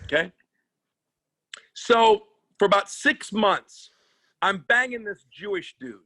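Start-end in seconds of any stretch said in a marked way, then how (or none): 4.4-6.0 campy gay persona. Pretend. Comic playing gay lover bit.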